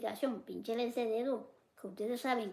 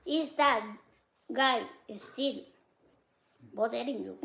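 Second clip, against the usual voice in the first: put-on reading English chat with a thick Spanish accent; halting, word-by-word English with a Spanish accent; much slower than usual. Streamer reads an English comment in Spanish-accented English. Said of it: "ese inglés mío es terrible".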